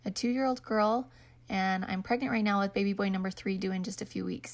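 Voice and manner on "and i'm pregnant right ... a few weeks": slightly breathless, hurried; out of breath. Real, not acted. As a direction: pregnant and short of breath. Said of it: "So if I sound out of breath".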